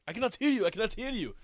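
imitating teammate. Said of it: "sometimes Nuri is like".

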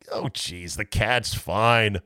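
quiet, slow brush-off; dismissive sigh. Retold or imitated. Host answering a complaint about the cat, quiet weary brush-off. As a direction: wave off the complaint wearily. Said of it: "I'm like".

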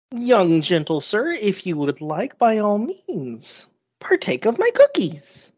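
a hint of a doting grandma offering treats; courtly old baker, lightly played; sweet old lady, generous; lightly voiced old lady, gracious.

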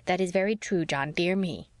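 lightly imitating a drab, lifeless wife; a hint of a dull, dutiful echo. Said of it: "in that drab, lifeless little voice".

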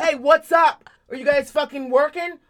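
hammed-up impatient shouting; mock yell. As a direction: holler for attention, rudely. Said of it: "I didn't yell".

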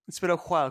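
"while" copied as "hwhile", h before the w; playful "hwhile"; echoed breathed wh. Retold or imitated. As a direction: parrot "while" with an audible h. Echoes the aspirated wh joke.

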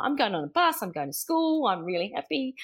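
put-on a six-year-old thrilled about the bus; happy little boy. Son on his first bus day, cheerfully excited. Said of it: "He was like".

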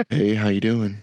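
bright customer-service phone greeting. Shown as a demonstration. Showing off his work phone voice, friendly receptionist greeting. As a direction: put on the friendly call-centre voice. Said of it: "my phone voice going".

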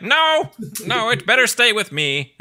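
high, hurried villain refusal; Skeletor. Retold or imitated. Villain keeping the puppy from kids, high protest. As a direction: squawk it possessively. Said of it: "And he's like".

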